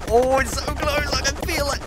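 high, soft squeal of suspense; tense anticipation. Real, not acted. Player willing the building to fall, high tense anticipation. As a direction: squeeze it out high and small. Waiting for the collapse.

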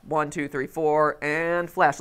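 evenly paced count landing on "flash"; rhythmic count. Shown as a demonstration. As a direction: count "One, two, three, four" on a steady beat, then "flash". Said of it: "it was very rhythmic".

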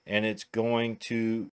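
stumbling over the words, tongue-tied. Real, not acted. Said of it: "I was tongue-tied there".

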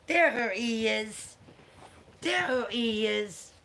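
slow, drawn-out cooing to a dog. Real, not acted. Owner shows off her dog to viewers, baby talk. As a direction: coo proudly as the pet appears.

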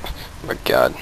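breathless whispered oh my god; whispered gasp. Real, not acted. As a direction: whisper it in relief. Near miss in game.

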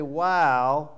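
loud wow, then slow awed words; amazed realization. Retold or imitated. Listener imagined realizing the prophecy, amazed. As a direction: marvel at it slowly. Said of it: "or you can say".

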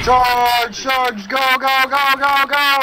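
loud charge yell, go go go; rallying shout. Real, not acted. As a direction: shout them forward into the charge.

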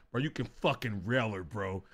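dropped low and soft; confidential urging. Retold or imitated. Mimicking the guy who advised him, confidential urging. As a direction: imitate a bro's hushed tip. Quotes the guy's confidential tip.

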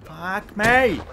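groaning "me" falling down; mock despair. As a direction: drop "fuck me" like a bad day. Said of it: "next day you're like".

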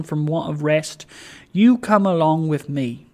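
lightly voiced hearty old man; Trotty, hearty host. Host urging tired guest to rest, heartily insistent. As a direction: lift the openings, firmly urge the guest along.

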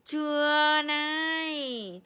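loud, slow playful scold; hammed-up loud scold; mock scolding. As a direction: pretend to punish the baby. Mock punishing baby's feet.

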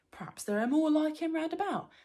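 high loud greedy troll; greedy troll planning. Acted. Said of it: "said Bert".

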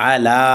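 short first syllable, long "লা" in আলা; one-alif madd. Shown as a demonstration. Teacher showing madd tabai, stretched লা in আলা. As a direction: draw out the "লা" of আলা. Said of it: "এক আলিফ টান হবে মাদ্দে".

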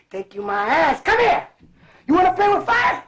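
angry mom. Retold or imitated. Mother dragging the son inside after the fire, mock anger. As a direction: scold him like a mad mom.

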